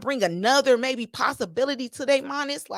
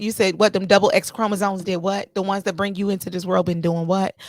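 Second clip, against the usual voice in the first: loud disbelieving questions, louder on each what; incredulous what; 4 dB louder than usual. Real, not acted. Retorting to the man who said women were catered to, loud disbelief. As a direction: demand he repeat himself, stunned.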